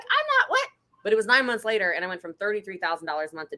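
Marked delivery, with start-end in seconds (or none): 0.0-0.7 high, startled squeak of disbelief; mock shocked. Retelling her reaction to the price, high stunned squeak. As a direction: gasp it out, stunned. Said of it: "and I'm like".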